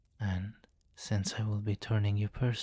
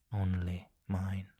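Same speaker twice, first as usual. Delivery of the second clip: possessive whisper. Acted.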